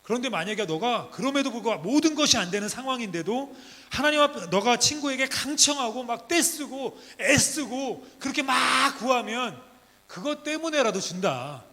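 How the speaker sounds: ordinary talk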